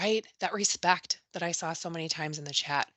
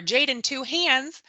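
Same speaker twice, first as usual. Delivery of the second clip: slow, higher warning call; urgent warning; 5 semitones higher, slower than usual. Retold or imitated. Teacher rushes to Jaden, slow firm warning. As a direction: rush over with a firm warning. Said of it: "the teacher rushes over".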